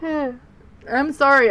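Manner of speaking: slow, stretched apology through a yawn. Real, not acted. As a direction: say it mid-yawn, slowly. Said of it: "I don't know why I'm yawning".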